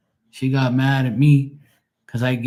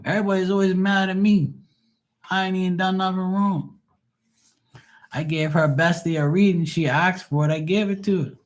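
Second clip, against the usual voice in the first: put-on higher, whining like a wronged kid; whiny high mock voice; 7 semitones higher than usual. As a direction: pout it out, mock-wounded. Whiny self-pity, mocked.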